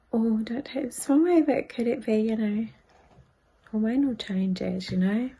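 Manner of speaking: a hint of a sweet, careful partner; gently imitating Dustin. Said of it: "Dustin said to me quite sweetly".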